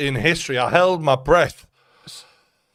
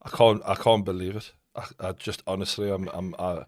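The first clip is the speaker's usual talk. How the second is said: stunned speechless; 6 semitones lower, 8 dB quieter than usual. Real, not acted. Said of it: "You're speechless".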